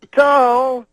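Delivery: high, loud, hugely stretched syllables. Retold or imitated. Cosby baiting the crowd for boos, slow shouted impression. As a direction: imitate milking a crowd, long held shout. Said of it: "he says it slower".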